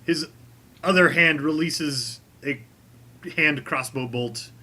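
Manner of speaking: deliberate storytelling, pausing between phrases; game master narration. Acted. Game master describes the crossbow kill to the players, deliberate narration.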